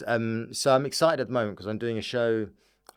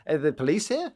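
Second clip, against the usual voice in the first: higher, louder baffled questions; hammed-up alarmed bewilderment; mock alarm; 6 semitones higher, 5 dB louder than usual. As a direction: fire off questions in mock panic. Mock panic at a flashing signal.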